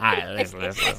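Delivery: hushed whispered listen; softly whispered plea. Real, not acted. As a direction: whisper to calm the room. Hushing in a whisper.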